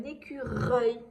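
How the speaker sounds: "écureuil" slowly, leaning on the R; drawn-out R. Shown as a demonstration. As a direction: let the R ring out in "écureuil". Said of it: "j'entends bien le R".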